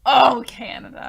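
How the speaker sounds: slow, unvoiced stage whisper. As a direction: whisper it slowly for the room. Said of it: "That was my stage whisper".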